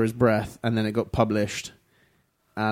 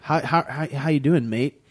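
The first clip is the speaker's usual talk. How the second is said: put-on American accent; 2 semitones higher than usual. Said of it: "they do it in an American accent".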